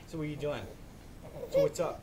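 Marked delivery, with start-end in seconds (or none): 1.5-2.0 put-on much higher playful baby talk. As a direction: squeak it up for the baby. Dad talks to baby.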